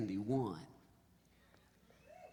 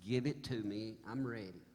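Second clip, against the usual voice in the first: softer, resigned inner voice; thinking to myself; 2 semitones lower, 6 dB quieter than usual. Retold or imitated. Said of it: "I'm thinking to myself".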